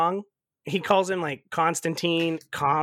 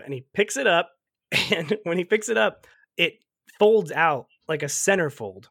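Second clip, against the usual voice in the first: ordinary talk, nothing marked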